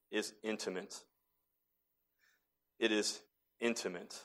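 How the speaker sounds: very soft, near-whispered words; hushed. Shown as a demonstration. Preacher leaning in to the congregation, hushed. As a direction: drop almost to a whisper. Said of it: "Whisper, right?".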